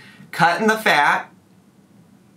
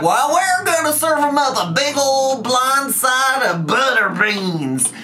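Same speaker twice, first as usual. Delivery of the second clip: much higher, a thick southern country drawl; hammed-up southern country accent, much higher; 10 semitones higher than usual. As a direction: play it up like a southern housemate serving dinner. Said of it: "she has a little bit of a, a country accent".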